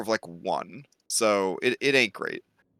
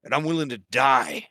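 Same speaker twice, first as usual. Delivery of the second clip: solemn Pythor; 3 semitones lower than usual. Acted. Pythor addressing the party about his people, solemn. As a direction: weigh each sentence with regret.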